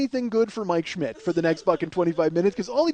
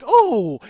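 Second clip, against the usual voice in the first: imitated crowd reaction; 3 semitones higher, 6 dB louder than usual. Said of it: "you hear this, like".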